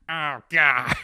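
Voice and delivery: loud, high fake cry of pain; mock agony on a loud outburst. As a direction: cry out as if injured, hammed-up. Pretends he hurt himself.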